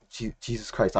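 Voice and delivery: soft, timid stammered re-enactment; small, hesitant mock-frightened voice; imitating terrified. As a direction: barely get it out, like a coward. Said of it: "I say it like I'm terrified".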